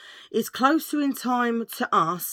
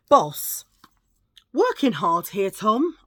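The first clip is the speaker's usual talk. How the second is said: mock call; 7 dB louder, slower than usual. Acting out the joke's employee.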